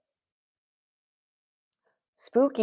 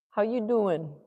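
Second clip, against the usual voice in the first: light New York Italian-American greeting; New York Italian accent; 4 semitones higher than usual. Acted. Painter trying out a greeting, New York Italian accent. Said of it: "This is a New York, Spanish Harlem, Italian accent".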